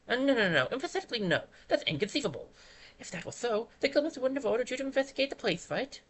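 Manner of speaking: lightly voiced pompous bird; indignant little know-it-all; fussy bird voice. Voicing fussy bird guide.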